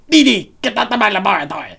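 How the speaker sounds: lightly voiced Dexter. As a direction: throw his sister out of the lab. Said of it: "I used to be able to do it".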